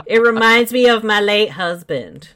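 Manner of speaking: put-on old widow voice.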